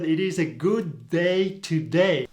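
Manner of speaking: slow, a hint of Australian "today" as "todie"; Australian accent. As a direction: lightly imitate an Australian student. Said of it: "in reality, he said".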